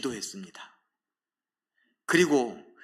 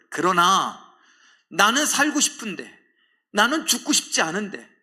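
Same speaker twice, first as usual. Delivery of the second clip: raised, pleading prayer voice; desperate prayer, rising and louder; anguished plea; 4 semitones higher, 6 dB louder than usual. Acted. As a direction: cry out to the father, begging. Jesus' prayer continues.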